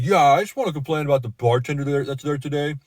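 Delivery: lightly voiced drunk complaint; whiny drunk complaint. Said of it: "he pretty much like".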